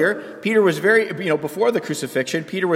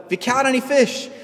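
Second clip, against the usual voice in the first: affectionate call out; 4 semitones higher than usual. Retold or imitated. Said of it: "when Jesus yells out".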